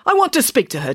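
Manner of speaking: mildly indignant insistence; firm demand. A narrator's reading. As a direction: demand it impatiently. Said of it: "demanded the doctor".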